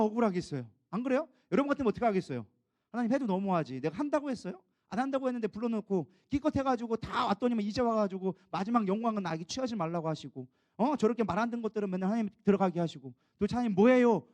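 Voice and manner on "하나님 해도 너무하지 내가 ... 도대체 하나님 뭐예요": complaining. Retold or imitated. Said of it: "따져볼 것 같더라고요".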